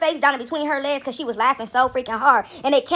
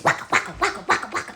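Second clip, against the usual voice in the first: imitated clapping; 3 semitones lower, 6 dB quieter, faster than usual. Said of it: "She was clapping so hard".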